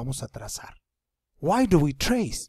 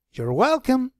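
put-on much higher girl's voice, bright and willing; voicing the girl; 10 semitones higher, 6 dB louder, slower than usual. Teacher plays the girl answering the boy, higher. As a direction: pitch up to play the girl agreeing. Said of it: "la chica le responde también".

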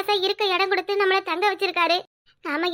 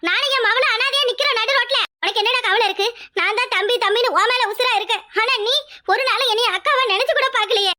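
raised, higher-pitched hurt outburst; anguished scolding; 4 semitones higher than usual. Acted. Sister scolding her hot-headed brother, pained and raised. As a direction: lash out at him through the hurt.

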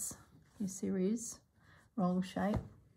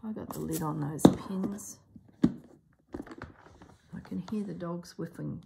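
slow whispered aside; slower than usual. Real, not acted. Crafter noting pins and dogs, in a whisper. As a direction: whisper it to yourself. Muttering to self while working.

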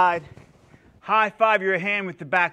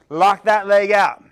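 ordinary delivery

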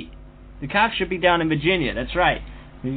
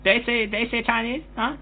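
mock Chinese accent; 3 semitones higher, 4 dB quieter than usual. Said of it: "it's good Chinese".

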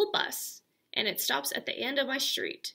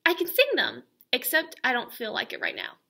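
put-on sassy kid; 2 semitones higher, 4 dB louder than usual. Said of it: "I said".

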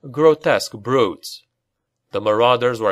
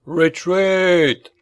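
despairing cry; 6 semitones higher than usual. Acted. Baron ordering his knights back, despairing shout. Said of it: "cried the Baron in a despairing voice".

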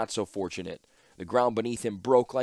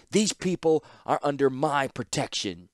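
higher, louder commanding call; shouted; 5 semitones higher, 5 dB louder than usual. Acted. Ashnod facing the Falaji troops, commanding shout. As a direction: claim them loudly down the stairs.

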